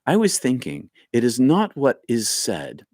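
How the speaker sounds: put-on lightly done Irish accent; weak Irish accent. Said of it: "Michael's from Ireland".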